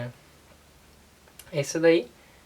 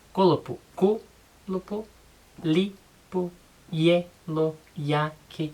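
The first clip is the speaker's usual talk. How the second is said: Kolopo broken up as ku, lopo, then li, po, ye, lo, ya, ki, each first syllable hit and the second dropped; first-syllable stress; 4 semitones higher than usual. Shown as a demonstration. Teacher showing viewers Toki Pona stress on the first syllable. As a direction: break every word into syllables and punch the first one, starting higher. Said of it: "a primeira sílaba sempre é a tônica".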